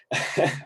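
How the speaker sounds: breathy little laugh; a quick laugh at the memory; short soft laugh. Real, not acted. Remembering his mother's demand, short soft laugh. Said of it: "I laugh because it's funny".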